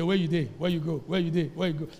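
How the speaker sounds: light Nigerian Pidgin nagging phone call; casual Nigerian Pidgin, mildly impatient; Nigerian Pidgin callers. Retold or imitated. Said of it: "this is how we talk".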